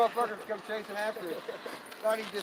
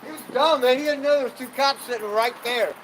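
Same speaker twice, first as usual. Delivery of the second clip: excited; 3 semitones higher, 6 dB louder than usual. Real, not acted. Laughing about cops chasing truck.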